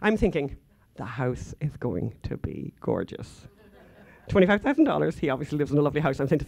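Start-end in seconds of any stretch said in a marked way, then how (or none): 1.0-3.5 slow, softer, laughing through it; amused self-mocking thought. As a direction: laugh at your own shallow hopes. Imagined thought, laughing at himself.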